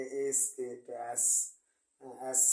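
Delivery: এস said with a drawn-out hiss. Shown as a demonstration. Teacher showing the American s, hissing it. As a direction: let the এস hiss out. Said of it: "এইভাবে একটু বলে".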